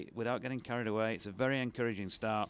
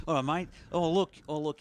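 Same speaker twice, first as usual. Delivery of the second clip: excited; 6 semitones higher, 6 dB louder than usual. Real, not acted. Excited reaction to score.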